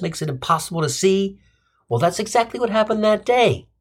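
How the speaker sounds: mock-formal address to the jury; courtroom defendant's plea. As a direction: plead your case in court, emphatically. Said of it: "took the stand and said".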